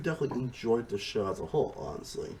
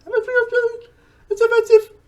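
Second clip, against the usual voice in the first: put-on terrible Australian accent; 12 dB louder than usual. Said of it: "my terrible impression of Australian accent".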